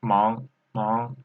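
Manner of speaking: "Mang" gliding upward, second tone. Shown as a demonstration. Teacher repeating for learners, "mang" in second tone. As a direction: lift the pitch through each "mang". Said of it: "second tone".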